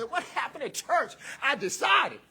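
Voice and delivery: high and loud, hammed-up talking dog; mock dog voice. The family dog asks what happened at church: high, hammed-up. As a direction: play an excited dog asking about church. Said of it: "dog say".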